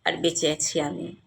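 measured, expressive poetry reading; poem recitation. Acted. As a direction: recite it line by line with lifted openings and settling ends.

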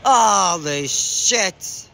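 very slow, drawn-out disbelief; stunned disbelief. Real, not acted. Gamer stunned by the play on screen, slow disbelief. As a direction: stretch it out, stunned.

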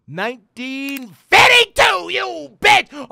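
high, loud and slow victory yell; triumphant shout. Real, not acted. Gamer cheering after solving the code. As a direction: roar it in triumph.

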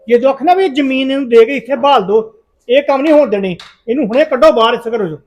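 angry demand. Acted. Son to his parents, demanding the boy leave, angry and loud. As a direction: insist hard he be thrown out.

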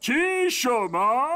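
sharp high startled question; can't believe it; surprised. Acted. Helper hears the fox built the farm, surprised.

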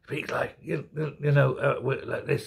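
faltering, feeble mumble that loses its words; Joe Biden. Retold or imitated. Host showing how Biden really speaks, weak and hesitant. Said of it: "He's very weak, very rasping voice now".

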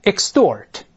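Extort, stressed second syllable with t voiced as d. Shown as a demonstration. Teacher repeats Extort for students to copy, voiced t. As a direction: model "Extort" with a d-like t after the s sound. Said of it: "后面重读时清辅音必须浊化".

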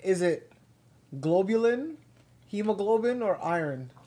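slow, careful quiz question reading; quiz host reading. Acted. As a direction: read each option out slowly. Reads quiz questions aloud.

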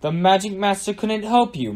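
mock them with a crowing lift in pitch; gloating storybook jeer. A narrator's reading. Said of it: "mocked Susan".

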